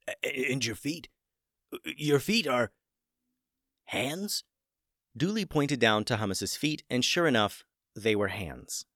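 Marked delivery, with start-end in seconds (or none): 0.1-4.4 rising higher in disbelief; astonished. Acted. Wizard gasps at his chicken's new hands, rising in disbelief. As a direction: break off, amazed at what you see.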